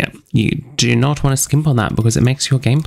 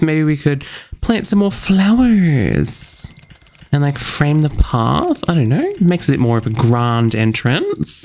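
odd put-on voice; 3 semitones higher than usual. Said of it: "I don't know why I'm talking like this".

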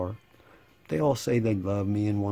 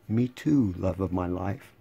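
sarcastic; 2 semitones lower than usual. Real, not acted. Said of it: "Pure sarcasm".

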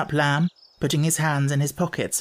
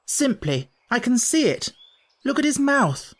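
sarcastic, high-pitched warning to siblings; exasperated boy; 4 semitones higher than usual. Acted. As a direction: warn them off with rising exasperation.

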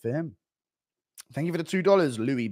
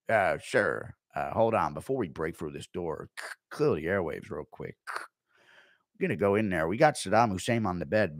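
Schmitty on the radio; 5 semitones lower than usual. Retold or imitated. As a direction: murmur orders like a squad leader. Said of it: "Schmitty interrupting the hit on Saddam".

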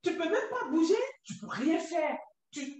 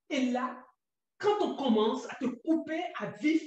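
ordinary talk, nothing marked

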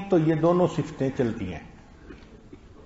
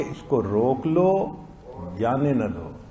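इसको रोक लो held up, then जाने न दो lower; pause after रोक लो; 3 semitones lower, slower than usual. Shown as a demonstration. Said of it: "लिखने वाले का मफहूम था".

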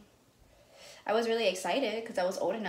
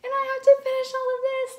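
laughing; 6 dB louder than usual. Real, not acted. Laughing about huge plate.

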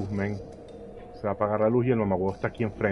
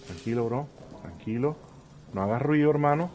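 hushed, softer self-calming; whispering while hiding; 5 dB quieter than usual. Real, not acted.

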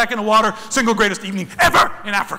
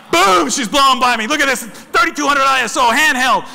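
excited retelling; 4 semitones higher, 5 dB louder than usual. Retold or imitated. Reliving the lioness rushing past.

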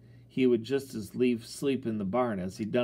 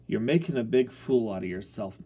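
disgusted; 4 dB louder than usual. Acted. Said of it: "my pop said disgustedly".

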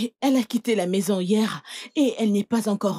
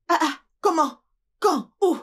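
indignation; 7 semitones higher than usual. Acted. Madam outraged at servant.

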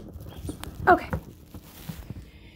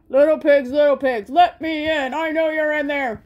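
a lightly voiced wolf calling, louder; 4 dB louder than usual. Wolf calling to the pigs at the door. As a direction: coax them from outside.

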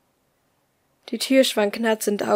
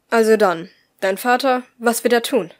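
insistent, louder; stubborn insistence; 6 dB louder than usual. Acted. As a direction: press him stubbornly. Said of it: "beharrte Nummer null störrisch".

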